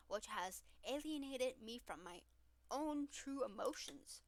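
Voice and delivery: lightly voiced growl, then mock-earnest confession; a hint of a gruff tough guy mocking himself; mocking Damien. Friend mocks Damien's angry tough-guy act, barely voiced. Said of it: "Do Damien".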